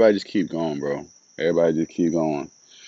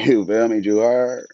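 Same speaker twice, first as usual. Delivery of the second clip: laughing, higher and louder; 6 semitones higher, 5 dB louder than usual. Real, not acted. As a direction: laugh through the words. Laughing at own boast.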